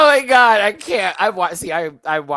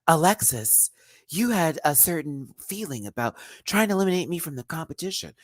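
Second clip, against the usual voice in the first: impression; 4 semitones higher than usual. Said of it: "she low-key talks like that".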